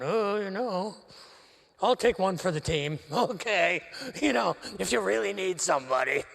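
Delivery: sheepish volunteer. Retold or imitated. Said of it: "sheepishly going".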